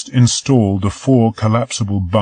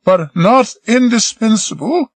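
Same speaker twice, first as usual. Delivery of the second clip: higher, slower pointed retort; tart retort; 4 dB louder than usual. Acted. Marie retorting to busy Peter, sharp and higher. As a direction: lean on "not" with a sharp comeback. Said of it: "she retorted".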